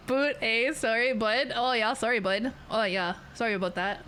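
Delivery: mock Canadian accent, rounded vowels; stereotypical Canadian accent. Streamer parodying apologetic Canadians, stereotypical Canadian accent. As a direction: play up a polite Canadian accent. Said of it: "Like, I don't talk like that".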